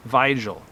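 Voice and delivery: Weigel with a German v sound at the start; attempted German pronunciation. Shown as a demonstration. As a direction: try Weigel the German way, "VY-gel". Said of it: "if I'm pronouncing this right".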